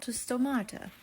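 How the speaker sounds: lightly Italian-accented stomata; playful hint of an Italian accent. Shown as a demonstration. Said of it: "say it with an Italian accent".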